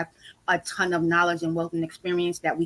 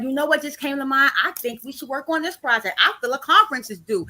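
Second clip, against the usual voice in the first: excited; 6 semitones higher than usual. Retold or imitated.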